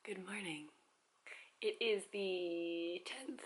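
soft early-morning whisper. Real, not acted. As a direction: whisper so no one wakes. Whispering early in hotel room.

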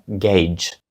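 gauge said as "gayj"; correct pronunciation. Shown as a demonstration. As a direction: model gauge as one syllable, "gayj". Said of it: "Правильна вимова".

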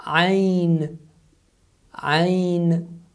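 "Ain" voiced from a squeezed throat; Arabic ain. Shown as a demonstration. Teacher shows the ain sound to English speakers. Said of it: "We don't have such thing in English".

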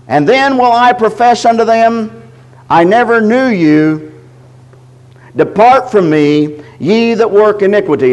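slow, solemn scripture reading. Acted. Preacher reads verse twenty-three slowly and solemnly. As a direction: let each phrase fall slowly.

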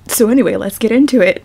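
loud, bright launch into it; upbeat kickoff. Real, not acted. Reader launching the bloopers with a laugh, excited. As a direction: kick it off with a burst.

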